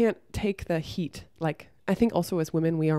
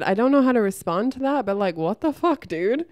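firmer retelling; 3 semitones higher, 4 dB louder than usual. Retold or imitated. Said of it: "I said, I said".

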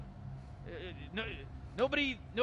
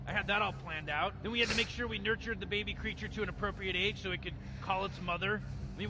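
lightly voiced cynical mad scientist, smug and rambling; Rick impression. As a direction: play the bored genius grandpa explaining his scheme. Gamer voicing Rick throughout.

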